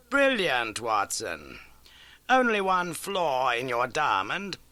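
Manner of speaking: crisp, keen detective laying out facts; Holmes voice. Acted. Holmes briskly telling Watson of the old case.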